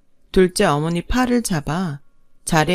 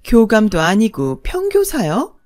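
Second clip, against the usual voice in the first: higher, louder, looking down on them; haughty sneer; 4 semitones higher, 4 dB louder than usual. Acted. Second wife mocking the bride's parents, haughty and loud. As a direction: sneer at the bride's humble family. Mistress mocks bride's family.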